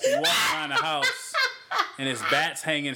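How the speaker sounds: laughing at the bats in the hallway. Real, not acted. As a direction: crack up mid-sentence. Laughing while telling story.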